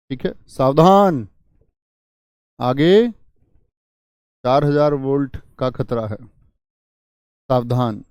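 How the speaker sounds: loud, slow caution; warning. Shown as a demonstration. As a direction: call out a danger warning. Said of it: "चेतावनी बोधक". (ज़ोरदार धीमी सावधानी की पुकार)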